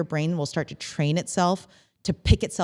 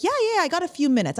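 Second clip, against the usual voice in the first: fast, higher-pitched agreeable reply; busy and hurried; 10 semitones higher, much faster than usual. Acted. Busy colleague with a few minutes before a meeting, hurried. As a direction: rush it out between meetings. Acts a busy person answering.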